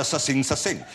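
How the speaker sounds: "sa-sing, sa-sing" in a playful put-on street voice; mock street accent. Host riffs on singing in slang, mock street accent. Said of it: "What is his accent?".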